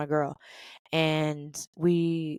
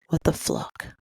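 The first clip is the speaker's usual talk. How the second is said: stunned whisper. Retold or imitated. Reacting to news of firing.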